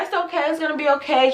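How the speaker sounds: lightly acted soothing reassurance; trying to be nice. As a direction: gently comfort a crying client, in retelling. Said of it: "I was trying to be nice".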